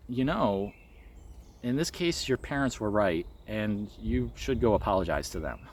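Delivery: soft and quiet, kind guidance; a hint of a tender, nurturing guide; gentle loving voice. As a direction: tell a child gently that they were wrong. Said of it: "said in such a gentle, loving, kind, supportive way".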